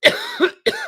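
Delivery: sharp cough fit; real cough. Real, not acted. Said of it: "Excuse me for coughing".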